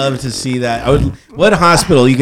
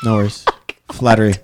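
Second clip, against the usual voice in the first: Cookie Monster voice; 4 semitones lower, faster than usual. Acted. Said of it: "That's your Cookie Monster voice".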